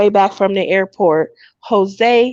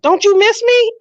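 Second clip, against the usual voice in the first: higher, hammed-up whiny plea; mock pleading boyfriend; 14 semitones higher, 4 dB louder than usual. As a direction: play the boyfriend begging for attention.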